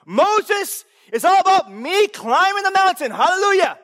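loud, high mock boast; satirical self-centred believer. Preacher mocking self-centred Bible reading, loud mock boast. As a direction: puff up like a self-absorbed hero. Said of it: "Feel the satire there".

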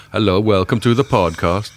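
teasing, lightly put-on Swedish accent; hammed-up Swedish podcast welcome; mock Swedish accent. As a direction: greet listeners in a jokey Swedish accent. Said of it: "taking a piss out of Swedish accent".

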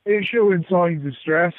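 blocked nose from tissue; tissue in nostril. Real, not acted. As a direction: talk with a plugged nostril. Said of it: "I've got toilet tissue in my nose".

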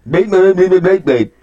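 mumbled through marbles, slurred; marbles in mouth. Shown as a demonstration. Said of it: "kinda like that".

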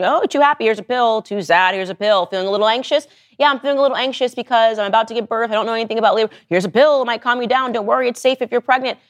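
mocking sing-through of offers and excuses; pill-pushing doctor. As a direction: lightly parody a doctor breezily handing out pills. Mimics doctors pushing pills on patients.

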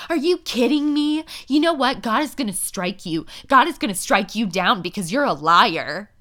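high, loud outraged squawk, imitating her; indignant mock shout, voice jumped up high; mock freak-out. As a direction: ham up her furious meltdown. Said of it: "Darcy freaks out".

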